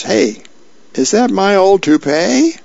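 a lightly voiced startled old man; surprised Earl. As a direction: squeak up as he spots the toupee. Earl spots cat's loot.

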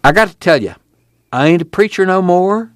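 reluctant country preacher explaining himself; nervous. A narrator's reading. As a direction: admit it with mild unease. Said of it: "fingers through his hair nervously".

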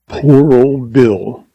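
slow, mournful sigh of a line. Acted. Cowboy grieving over the dead lion, slow and mournful. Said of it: "he exclaimed mournfully".

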